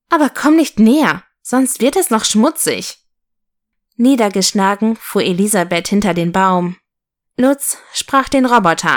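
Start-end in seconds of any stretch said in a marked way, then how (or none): 0.1-3.0 higher-pitched, lightly haughty doll; a touch of prissy disdain; snooty doll. Acted. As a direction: warn them off like a vain little doll. Vain doll rebuffs the locomotive.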